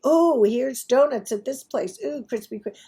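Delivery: mock excitement. People offering donuts to her, mock excited. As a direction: imitate people gushing about donuts.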